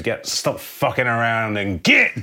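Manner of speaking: loud, slow, high-pitched bellow; bellowed order. Acted. Gang boss out of the truck window to his men, bellowing. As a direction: bellow at the gang to fall in line. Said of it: "hangs his head out the window and bellows".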